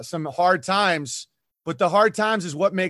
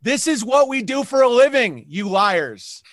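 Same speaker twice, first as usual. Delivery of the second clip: higher, louder exasperated jab; exasperated retort; 5 semitones higher, 4 dB louder than usual. Retold or imitated. Telling comedians off for lying, exasperated and loud. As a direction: call them out with a laughing edge. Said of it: "I'm like".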